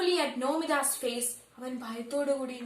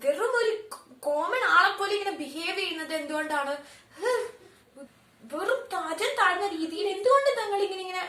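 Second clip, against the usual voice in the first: raised angry questioning voice; 4 semitones higher, 3 dB louder than usual. Acted. Nomita scolding her husband for vulgar behaviour, angry. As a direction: demand it in anger, voice up. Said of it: "ഭയങ്കര ദേഷ്യത്തോടു കൂടി നോമിത ചോദിച്ചു".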